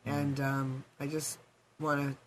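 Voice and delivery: hoarse, losing her voice. Real, not acted. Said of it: "I don't know why I'm losing my voice".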